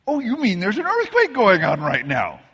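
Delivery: dazed surprise. Retold or imitated. Pastor retells own dazed reaction.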